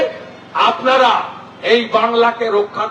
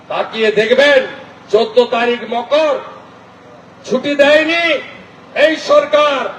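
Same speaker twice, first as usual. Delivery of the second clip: emphatic political oratory with pauses between phrases; rally speech. Real, not acted. Politician rallying a crowd to defend Bengali culture, declamatory.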